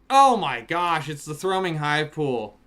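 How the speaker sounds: loud, high yell of joy; excited shout. Real, not acted. Streamer yells to chat over a rare land, excited shout. Last rare pull, yelling.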